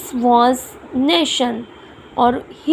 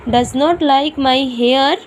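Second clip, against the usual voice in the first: slow read; much slower than usual. Shown as a demonstration. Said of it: "He does not like my hair".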